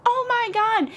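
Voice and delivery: very high, drawn-out mock panic; imitated freak-out. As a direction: squeal it like an alarmed sister-in-law. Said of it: "freaking out".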